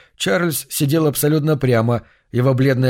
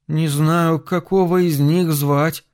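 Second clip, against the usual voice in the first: put-on slow, despairing boy's plea; 4 semitones higher, slower than usual. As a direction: say it at a loss, close to despair. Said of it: "с отчаянием произнёс Чарльз".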